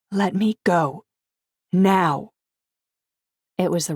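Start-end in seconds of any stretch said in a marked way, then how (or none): 0.1-2.3 a touch of threat, slightly higher; threatening. Acted. Woman warning her boyfriend to release her, mild threat. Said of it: "I couldn't keep the threat from my voice".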